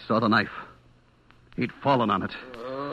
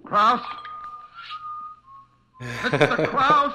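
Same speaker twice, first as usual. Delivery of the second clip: calling out; 11 semitones higher, much slower than usual. Acted. Calling out in the dark store.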